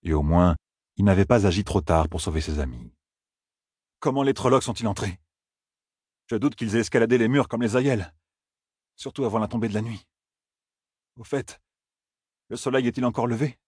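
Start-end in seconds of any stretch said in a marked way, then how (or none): 4.0-13.6 a higher, probing voice; asking urgently how they got in; questioning Rand. A narrator's reading. Rand asks how the Trollocs entered, higher.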